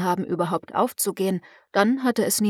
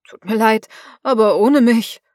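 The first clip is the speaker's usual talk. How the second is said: firm refusal; 7 dB louder than usual. A narrator's reading. Fisherman refuses loudly.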